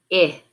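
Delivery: I as the short "ih" in pin; isolated vowel sound. Shown as a demonstration. Teacher giving the new vowel, I said as short "ih". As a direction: say I as a lone "ih", not "eye". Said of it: "change the vowel sound".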